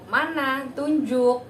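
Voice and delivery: put-on firm, bright order to a child; loud clear command. Shown as a demonstration. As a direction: say it like a cue at therapy. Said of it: "berikan instruksi tunjuk".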